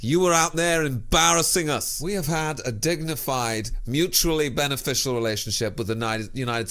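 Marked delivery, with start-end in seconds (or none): 0.0-2.0 higher, louder outraged accusation; indignant rant. Acted. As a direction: scold him with mounting outrage. Ranting at the mayor.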